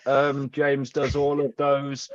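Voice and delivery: slow, stilted robot read of "James does all of those". Shown as a demonstration. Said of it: "if you read it like a robot going".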